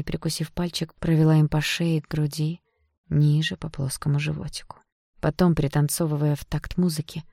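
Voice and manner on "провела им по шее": ordinary talk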